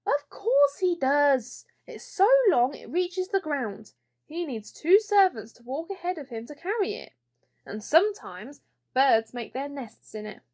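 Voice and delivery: a hint of a proud little princess; lightly voiced princess. Mirabel telling Ellen about her father's beard, proud princess. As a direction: boast as if it's obvious.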